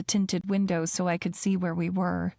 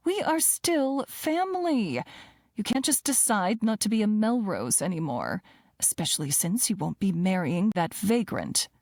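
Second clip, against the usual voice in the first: stern mother. Acted. Mother lecturing daughter.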